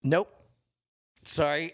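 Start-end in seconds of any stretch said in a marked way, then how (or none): 0.0-0.4 choked out through a cough; choking on a drink. Real, not acted. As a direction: force the word out while choking. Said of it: "I was choking on something".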